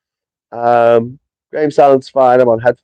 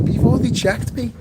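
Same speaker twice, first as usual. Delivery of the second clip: retold protest; 9 semitones higher, 4 dB quieter than usual. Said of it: "I'm like".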